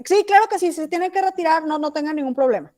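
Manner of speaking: high, sweet teacher voice, speeding up at the end; preschool teacher voice. Retold or imitated. Mom speaking sweetly to a parent at school, high teacher voice. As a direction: put on mom's high classroom voice. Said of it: "forzaba su voz a hacerla más aguda".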